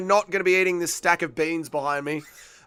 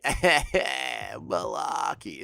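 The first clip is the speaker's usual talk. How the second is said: amused laughing; 3 semitones lower, 4 dB quieter, much slower than usual. Real, not acted. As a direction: laugh into a slow, drawn-out name. Laughing over a fun name.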